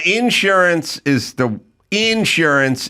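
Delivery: "insurance" with the stress moved to the first syllable, IN-surance; regional pronunciation. Shown as a demonstration. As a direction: lean on the IN of "insurance". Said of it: "like, the black version of McDonald's".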